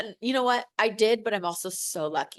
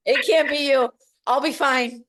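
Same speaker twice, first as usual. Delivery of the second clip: voice breaking; 3 semitones higher, 6 dB louder than usual. Real, not acted. Emotional quote to husband, voice breaking.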